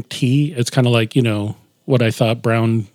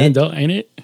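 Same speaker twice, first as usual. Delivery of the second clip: put-on British accent, pitched a little higher; mock British accent; 4 semitones higher than usual. Host joins the joke about Randall's name, mock British accent. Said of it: "that's a very British name".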